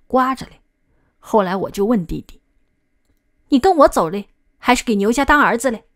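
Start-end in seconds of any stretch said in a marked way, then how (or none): 3.5-5.8 stern demand. Acted. Angry brother confronts younger brother.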